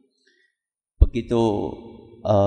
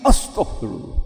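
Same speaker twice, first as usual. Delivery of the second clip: istigfar kaget dengan napas tertahan; suami kaget. Acted. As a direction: tirukan bapak yang terkejut. Suami kaget mendengar bayinya cacat. (istigfar bapak yang terperanjat)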